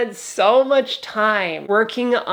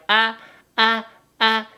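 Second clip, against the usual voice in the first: moaning; 3 semitones higher than usual. Shown as a demonstration. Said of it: "the sex is like".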